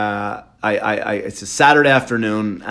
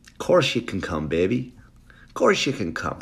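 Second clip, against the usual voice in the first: soft, giving-in husband; resigned husband; 3 semitones lower, 6 dB quieter than usual. Acted. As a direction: give in quietly to the wife. Husband gives in to wife.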